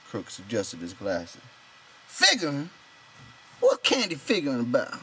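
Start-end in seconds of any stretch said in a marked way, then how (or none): 2.1-5.0 loud and high, nearly a shout; almost shouting. A narrator's reading. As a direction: push it to the edge of a yell. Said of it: "Lenny almost shouted".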